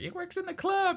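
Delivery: very high shouting mom; high-pitched mom calling from the club; mom's voice. Retold or imitated. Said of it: "She's like".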